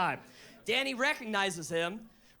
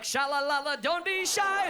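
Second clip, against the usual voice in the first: smooth flirting; 4 semitones higher, 3 dB louder than usual. Retold or imitated. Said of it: "be like".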